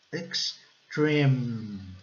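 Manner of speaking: EXTREME split "ex... treeeme", long "ee"; prolonged I. Shown as a demonstration. Teacher modelling a harder word, drawn-out long I. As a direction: stretch the "ee" in EXTREME and hum the M. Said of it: "aquele I prolongado".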